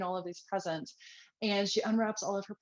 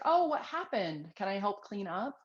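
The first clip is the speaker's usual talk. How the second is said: curious and calm. Shown as a demonstration. Parent finding spilled milk, calm curious question. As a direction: ask gently, no blame. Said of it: "If you can just be curious and be like".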